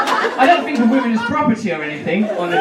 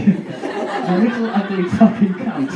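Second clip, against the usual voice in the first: put-on slow, gentle baby talk; cooing to a baby; slower than usual. Shown as a demonstration. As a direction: coo it sweetly at a baby. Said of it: "I like to imagine he's saying it to the baby".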